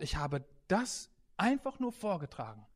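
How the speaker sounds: low and soft, fading into a whisper; humble, hushed answer. Retold or imitated. Old man explaining himself to congregation, hushed humility. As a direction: let the confession sink to a breath.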